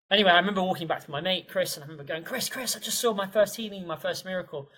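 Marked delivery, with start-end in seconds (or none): 2.2-4.7 high, eager calling out; bursting to share the news, pitched up; excited to a friend. Retold or imitated. Calling to his mate Chris, pitched up with eager excitement.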